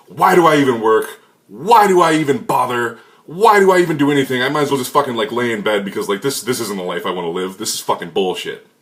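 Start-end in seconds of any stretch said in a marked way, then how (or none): 0.1-5.1 louder, higher exasperated outburst; frustrated rant. Retold or imitated. After a fight with girlfriend, loud exasperated venting. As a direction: vent like everything is pointless. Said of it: "you're in a terrible mood".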